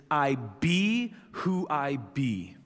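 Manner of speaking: slow, weighty declaration of I be who I be; authoritative. Shown as a demonstration. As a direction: proclaim it with divine authority. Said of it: "sounds like so much more authority".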